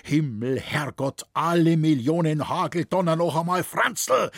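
high, loud cry of alarm; yelled dialect outburst, pitched high; old man's shout. A narrator's reading. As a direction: shout an urgent warning, then curse. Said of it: "schrie der alte Schrink".

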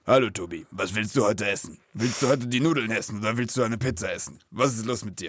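imitating a very deep-voiced restaurant chef; huge deep-voiced Italian boss. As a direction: drop low, like a giant of a man. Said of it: "der hat die tiefste Stimme offiziell der Welt". (tiefe Stimme eines riesigen Italieners)

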